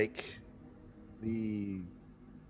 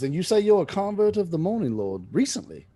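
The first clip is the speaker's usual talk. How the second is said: higher, interested monk; curious abbot; 8 semitones higher, 4 dB louder than usual. Acted. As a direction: ask the convert warmly. Abbot asks about conversion.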